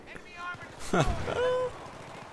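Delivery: high, light gloating laugh; high-pitched chuckle of triumph. Real, not acted. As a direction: laugh softly and high after the taunt. Laughs after taunting enemy.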